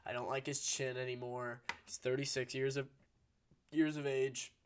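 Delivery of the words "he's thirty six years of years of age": talking through hiccups; a hiccup breaks up the words. Real, not acted. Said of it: "Sorry, I'm hiccuping".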